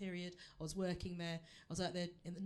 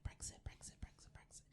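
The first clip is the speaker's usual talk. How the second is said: fading breathy repeated whisper; 13 dB quieter than usual. Shown as a demonstration. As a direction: whisper it away until it's gone. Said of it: "Forget the word Brexit".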